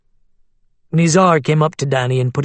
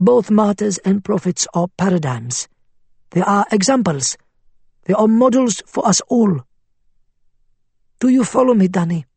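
persuasive cleric voice; 6 semitones higher than usual. Acted. Faiz lecturing.

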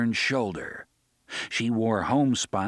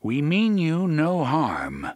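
calling out; 5 semitones higher, 4 dB louder, slower than usual. A narrator's reading. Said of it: "the gunslinger called".

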